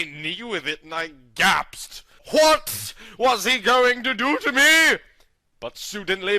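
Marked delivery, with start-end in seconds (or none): 2.3-5.0 mock suspense. A narrator's reading. Suspense in narration.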